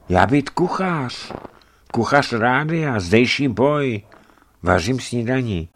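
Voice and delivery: slow, high-pitched pidgin introduction; French-speaking cook. A narrator's reading. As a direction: play the foreign cook, drawn out and high. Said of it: "odpovídá strašidlo francouzsky".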